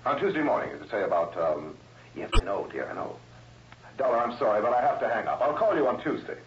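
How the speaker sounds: tape recording. Acted. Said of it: "Pre-recorded here before he left".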